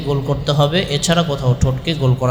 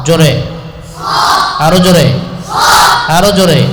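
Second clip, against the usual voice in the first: teacher calling out loudly for more volume; teacher urging students to say it louder; 6 dB louder than usual. Real, not acted. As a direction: push the class, loud and firm. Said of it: "জোরে বলতে হবে আমার সাথে".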